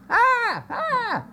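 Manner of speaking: two high pitched yelps of terror; mock scream. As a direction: shriek like frightened sailors. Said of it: "hardy seamen screaming".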